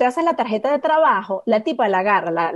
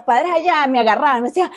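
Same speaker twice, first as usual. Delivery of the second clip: usual speaking voice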